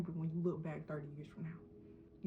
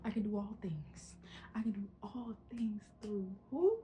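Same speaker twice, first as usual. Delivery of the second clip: breathy self-pep whisper, rising question at the end; whispered affirmation; 2 semitones higher than usual. Real, not acted. Vlogger coaching herself through doubt, whispering. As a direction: whisper it to yourself like a secret promise.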